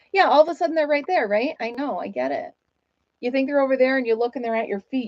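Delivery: usual speaking voice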